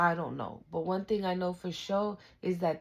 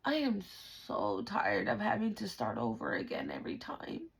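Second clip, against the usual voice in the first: weary complaint; 2 semitones higher than usual. Acted. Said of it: "You were just like, "God, I'm so tired".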